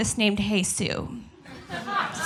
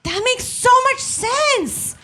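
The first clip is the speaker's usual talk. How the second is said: put-on naive young self; 8 semitones higher than usual. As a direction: play your younger self wide-eyed and earnest. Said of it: "I was like".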